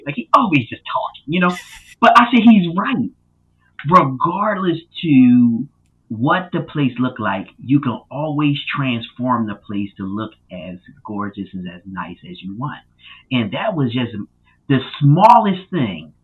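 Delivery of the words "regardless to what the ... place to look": slow, deliberate delivery in his own voice; drawn-out, earnest emphasis; measured restatement. Real, not acted. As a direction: restate the lesson slowly, leaning on the opening. Repeats mentor's lesson in own voice.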